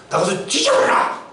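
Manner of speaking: mock parental outburst; acted angry scolding of a child. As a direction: curse like a parent at the end of their patience. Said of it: "우리는 막 화가 나면".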